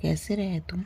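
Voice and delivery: soft, barely voiced question; quiet ask. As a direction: ask in a hushed, broken voice. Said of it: "इतनी देर बाद पूछा". (धीमी फुसफुसाती आवाज़ में)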